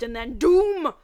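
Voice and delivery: loud, high spooky boom on doom; dramatic doom. Acted. Brock acting out the horror film for his friends, loud dramatic doom. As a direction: act out the scary moment. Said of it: "acting it out in front of them".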